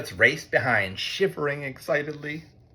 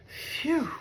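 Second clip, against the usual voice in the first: relieved phew; 14 semitones higher, 7 dB quieter than usual. A narrator's reading. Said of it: "whispered Mole".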